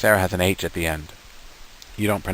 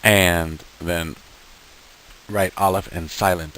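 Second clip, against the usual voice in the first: pretend helper; slower than usual. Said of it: "Flash, tell us what to do".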